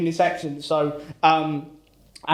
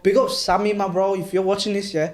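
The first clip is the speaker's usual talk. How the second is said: put-on Birmingham accent.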